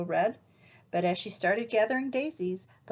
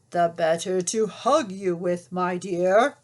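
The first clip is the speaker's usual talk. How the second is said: louder, lightly growled wolf line; a hint of a growling wolf; 2 semitones lower, 6 dB louder than usual. Wolf growling at Little Red from the bed. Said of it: "growled the wolf".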